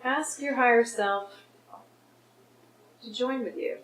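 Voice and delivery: unhurried guidance with long pauses; guided meditation. Real, not acted. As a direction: lead them inward, phrase by phrase. Leads a guided forgiveness exercise.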